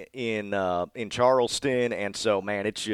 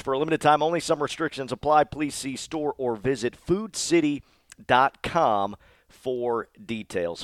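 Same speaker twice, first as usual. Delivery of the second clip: ad disclaimer read; 3 semitones higher than usual. Acted. Reads ad disclaimer, slow.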